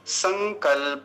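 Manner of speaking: संकल्प said "san-kal-pa"; full final pa. Shown as a demonstration. Teacher modelling for students, full pa in संकल्प. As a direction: voice the last प of संकल्प completely. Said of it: "प पर विशेष ध्यान देंगे".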